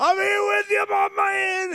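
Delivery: high, loud shout.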